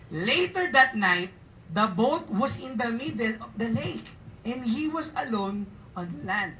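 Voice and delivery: slow, deliberate Bible reading; scripture reading. Acted. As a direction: read each phrase slowly.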